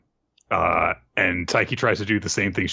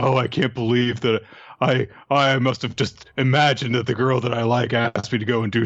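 lightly voiced flustered teenage boy, a little higher; half-hearted imitation of a boy in disbelief; mock teenage boy; 4 semitones higher than usual. Teen boy who can't believe the girl asked him out, lightly mimicked. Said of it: "such a teenage boy thing to say".

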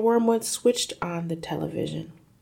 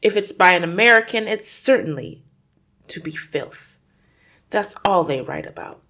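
scornful father; 2 semitones higher, 5 dB louder than usual. Acted. Father sneering at book.

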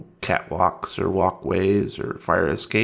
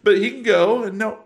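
acted protest; 10 semitones higher than usual. Game master acts a reply.

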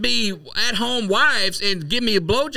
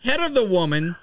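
1940s voice. Acted. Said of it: "That's my nineteen forties voice".

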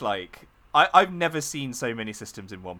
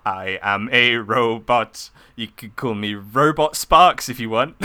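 robot voice; 6 dB louder than usual. Acted. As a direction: speak like a stiff robot. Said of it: "I'm gonna stop doing that voice now".

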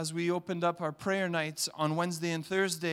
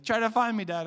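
put-on a light child's call, higher and louder; kid voice; 5 semitones higher, 5 dB louder than usual. Little son calling dad to come find him, playful. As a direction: call out like a little boy hiding. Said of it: "he's like".

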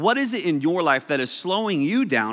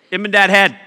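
laughing; 3 semitones higher, 8 dB louder, faster than usual. Shown as a demonstration. Joke name said twice.

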